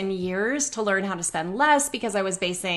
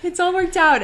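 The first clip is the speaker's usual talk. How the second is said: reassuring; 9 semitones higher, 3 dB louder than usual. Retold or imitated. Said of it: "I'm like".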